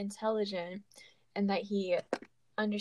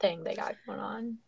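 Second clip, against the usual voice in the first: whisper. Real, not acted. Whispered ending after gasp.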